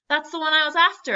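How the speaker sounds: high, loud, quick exclamation; excited cry. A narrator's reading. Boy seeing his butterfly fly off, crying out excitedly. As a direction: burst out in excitement, fast. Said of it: "I cried".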